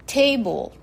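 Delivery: テーブル said the English way, as "table" with stress on the first syllable; English pronunciation. Shown as a demonstration. Teacher demonstrating English テーブル to listeners. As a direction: model テーブル as a native speaker would say it. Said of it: "英語だとテーブル".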